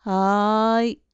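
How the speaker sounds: drawn-out, can't-be-bothered reply; reluctant. A narrator's reading. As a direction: answer as if it's a bother. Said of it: "めんどくさそうに返事をしました". (めんどくさそうに)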